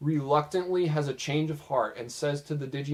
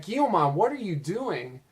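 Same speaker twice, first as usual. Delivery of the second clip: higher calling-out yell to a friend; mock yell; 5 semitones higher than usual. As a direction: call back across the distance, alarmed. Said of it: "Takato yells back".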